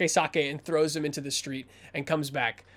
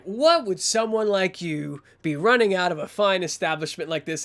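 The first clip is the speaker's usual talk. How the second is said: menacing enforcer. Acted.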